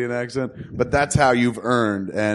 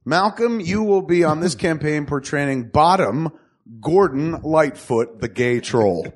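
higher, deliberate proclamation; grand announcement; 3 semitones higher than usual. Acted. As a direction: unveil the role like a herald. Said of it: "announces character role".

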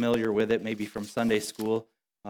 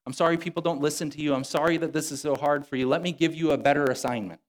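higher, overly consoling pretend God voice; mock sympathetic God; 3 semitones higher than usual. God as the preacher imagines him comforting a prophet, mock apologetic. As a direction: coddle him like a buddy who's sorry. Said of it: "He doesn't say".

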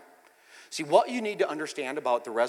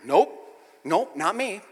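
quick, higher-pitched flat refusal; adamant denial; 7 semitones higher, 9 dB louder, much slower than usual. Retold or imitated. Peter denying he knows Jesus, adamant. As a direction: deny it firmly and a bit loud. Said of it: "She adamantly".

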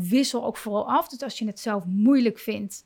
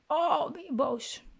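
put-on soothing a child; 3 semitones higher than usual. Shown as a demonstration. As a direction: coax the child kindly, a touch higher. Parent soothing an angry child.

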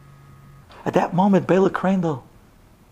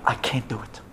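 quiet refusal; 6 semitones lower, 6 dB quieter than usual. Acted. Groom's apology to the bride.

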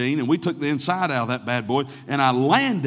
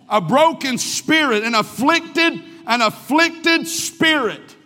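broken and afflicted stretched slow and high; louder, slower pulpit stress; slow preached emphasis; 10 semitones higher, 6 dB louder, much slower than usual. Acted. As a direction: lean hard on each word, slow. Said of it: "preached scripture line".

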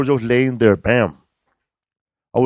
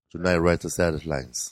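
poem recital; 4 semitones lower, 6 dB quieter than usual. Retold or imitated. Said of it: "Andy Garcia does a narration".

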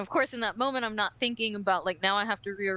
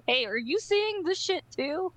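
checking in; 7 semitones higher than usual. Retold or imitated. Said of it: "check in and say".

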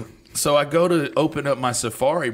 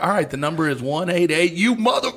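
higher, building into a mock shouted tirade; retold cursing outburst; 7 semitones higher, 3 dB louder than usual. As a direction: read the number, then explode into mock swearing. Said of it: "just started releasing any cuss word".

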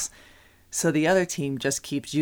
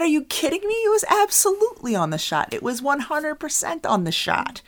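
much higher and louder, arguing with the ref; mock outraged protest; 14 semitones higher, 5 dB louder than usual. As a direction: protest the call in disbelief. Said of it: "I said".

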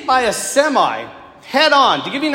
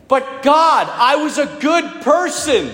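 higher, drawn-out protest; retold desperate plea; 4 semitones higher, slower than usual. Man falling into darkness protesting to God, acted desperate plea. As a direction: plead your case, acting out the falling man.

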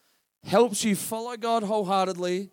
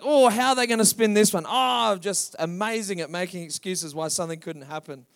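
mock excuse-maker; 4 dB louder than usual. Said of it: "others are like".

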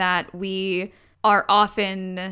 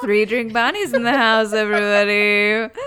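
mock announcer; 4 semitones higher, 5 dB louder than usual. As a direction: welcome a star act to the stage. Mock announcer hyping a persona.

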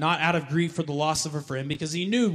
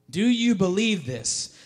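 YOU pressed, higher and louder; louder slow question; 6 semitones higher, 5 dB louder, slower than usual. Acted. Preacher pressing the congregation, louder and higher.

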